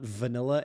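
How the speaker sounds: "vanilla" with a marked V sound; imitating VANILLA with a deliberate English V; emphasized V. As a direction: lean on the V of "vanilla". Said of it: "she says vanilla".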